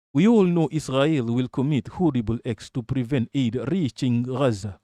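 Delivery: put-on amateur stab at a British accent; loosely attempted British accent. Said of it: "let me do a, a, a British accent".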